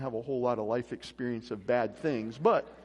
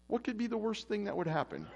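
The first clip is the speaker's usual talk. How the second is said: mock-innocent question, pitched up; lightly sarcastic inner voice, raised in pitch; sarcastic conscience; 7 semitones higher than usual. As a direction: play the conscience egging you on. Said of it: "conscience has been a little sarcastic".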